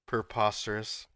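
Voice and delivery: understated mock-British accent; British impression. Friend savoring the joke word, light British impression. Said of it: "some more British impression".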